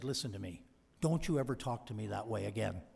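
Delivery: imitating a stern boss, low and firm; stern boss rebuke. Tom's stern rebuke, retold.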